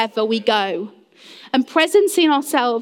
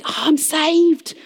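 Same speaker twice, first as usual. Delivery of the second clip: higher-pitched, acted humble awe; humble gratitude; 4 semitones higher than usual. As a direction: play a humbled believer marvelling with thanks. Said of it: "You are humble. You're like".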